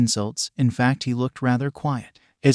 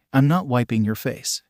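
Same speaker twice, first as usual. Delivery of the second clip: deadpan. Acted. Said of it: "in a deadpan voice".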